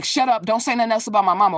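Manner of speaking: hurried, heated retold order; angry cousin imitated. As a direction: imitate a cousin brusquely demanding silence. Acts cousin's hush-money demand.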